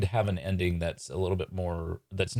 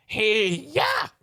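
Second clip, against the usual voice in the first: high, drawn-out attack yell; battle cry; 5 dB louder than usual. Acted. Magician launching his attack on a rival, battle cry. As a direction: yell it like a martial-arts strike.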